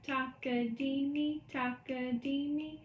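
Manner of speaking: slow, even rhythm syllables; measured spoken rhythm count; counting the subdivision. Shown as a demonstration. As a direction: count slowly in steady sixteenths. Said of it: "if this is my subdivision".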